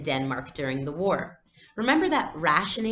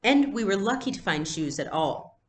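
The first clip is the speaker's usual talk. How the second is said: sniffled; 4 semitones higher than usual. Acted. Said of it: "Kirsty sniffled".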